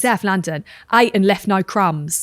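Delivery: put-on South London accent, slowly drawn out; broad South London vowels, unhurried. Shown as a demonstration. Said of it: "Can you say it in a Southern accent, a London accent?".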